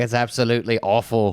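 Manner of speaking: a light mock Cowell put-down; Simon Cowell judging. TV judge slamming a contestant, lightly mocked. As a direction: sneer out the verdict lightly. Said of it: "He's like".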